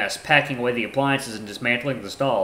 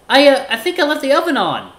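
high, loud, faltering fake worry; hammed-up panic; 9 dB louder than usual. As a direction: confess in overplayed alarm. Axel fakes panic about oven.

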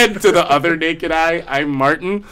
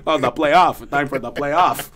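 Patrick Roy voice. Retold or imitated. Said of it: "So that's how I say it now".

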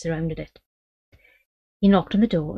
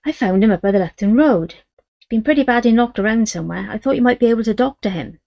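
put-on boy's voice; 4 semitones higher, 5 dB louder than usual. Boy voiced in story.

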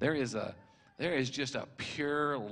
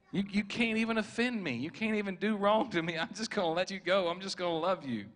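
higher-pitched, insistent reassurance; earnest declaration; 6 semitones higher, 3 dB louder than usual. Retold or imitated. Preacher voicing the man's love for people, earnest declaration. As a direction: voice his open-hearted love, pitched up.

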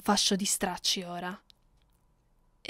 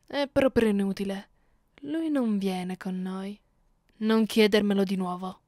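irritated; 4 dB louder than usual. Acted. Mistress dismissing his question.

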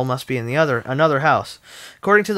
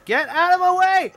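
barbarian. Acted. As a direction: bellow it like a brute shoving through. Voicing barbarian character shouting.

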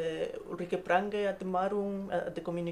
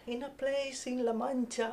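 quoting a famous opening; 6 semitones higher, 4 dB quieter than usual. Retold or imitated. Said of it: "my favorite first sentence".

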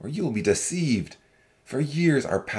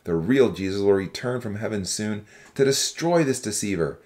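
low-pitched, forceful character harangue; restrained shout of an accusing young man; shouted warning; 9 semitones lower than usual. A narrator's reading. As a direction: call out a warning without much volume. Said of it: "a young man stood up and shouted".

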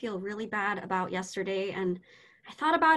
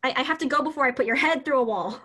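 frustrated outburst; 4 dB louder, faster than usual. Acted. Frustrated teacher storms off.

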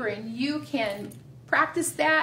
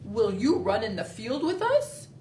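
lightly voiced dog, a bit lower; 3 semitones lower than usual. Teacher voicing Dog inviting Squirrel, lightly voiced. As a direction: ask like a friendly dog. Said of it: "said Dog".

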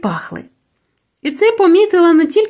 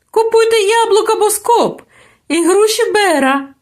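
higher market call, pitched to carry; fruit sellers calling; 7 semitones higher than usual. A narrator's reading. Fruit seller calls out to market shoppers, higher and carrying. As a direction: hawk your apples across the square. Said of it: "гукали раз у раз".

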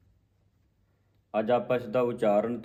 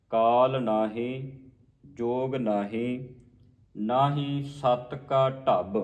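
slow recitation resting after each ਨਾਹੀ; pause after ਨਾਹੀ; much slower than usual. Shown as a demonstration. Teacher showing the congregation the rests, pausing on ਨਾਹੀ. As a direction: draw out each phrase, then stop after ਨਾਹੀ. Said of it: "ਨਾਹੀ ਤੇ ਵਿਸਰਾਮ ਹੈ".

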